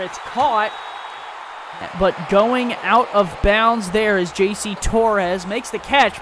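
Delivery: rising excitement on the catch; excited play call. Real, not acted. Big catch near the sideline.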